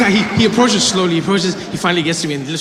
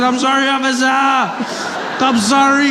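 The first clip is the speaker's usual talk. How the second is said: panicked pleading; 8 semitones higher than usual. Retold or imitated. Pleading with officer.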